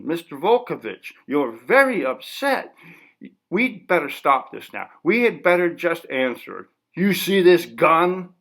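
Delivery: a cautious reporter edging around him; nervous interviewer. Acted. Interviewer hesitantly asking the artist to stop, lightly voiced.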